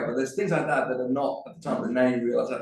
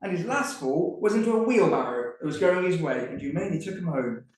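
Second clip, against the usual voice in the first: higher, lively Cockney lamplighter telling a tale; Tom the lamplighter; 6 semitones higher than usual. Acted. Performer reads Tom the Lamplighter to the audience, lively Cockney storytelling. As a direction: spin the yarn like a chatty Cockney geezer. Continues Tom's lamplighter monologue.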